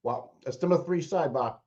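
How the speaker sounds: talking while chewing; mouth full. Real, not acted. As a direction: speak through a mouthful of food. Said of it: "Sorry, I was chewing".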